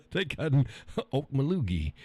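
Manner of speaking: phlegmy mock cough word. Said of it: "sounds like something ... bunch of phlegm".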